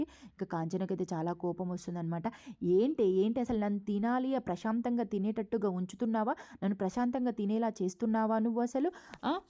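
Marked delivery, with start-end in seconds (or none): 2.6-9.4 getting serious. Retold or imitated. Mother-in-law snapping at Deepa's invite to eat, mildly angry. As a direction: snap back as if irritated. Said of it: "చాలా serious అవుతుందన్నమాట".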